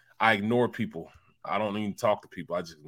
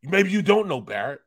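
lightly raised taunting voice; mocking producer; 5 semitones higher than usual. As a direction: mildly needle him, sarcastic. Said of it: "Mulhern was like".

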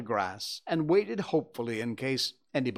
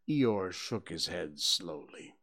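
ordinary delivery, nothing marked

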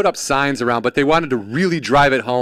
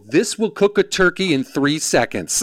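lightly voiced infomercial host; a hint of high sales hype; pitchman; 5 semitones higher than usual. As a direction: make the big claim like a pitchman. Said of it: "pitch guy".

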